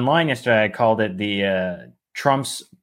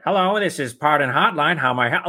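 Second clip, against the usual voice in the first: operator impression; 2 semitones higher than usual. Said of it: "I'm doing impressions of".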